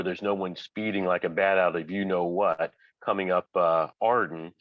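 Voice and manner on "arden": ordinary talk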